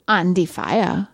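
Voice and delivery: slow mock German accent; comic German accent. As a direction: put on a deliberate, drawn-out German accent. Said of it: "I am German".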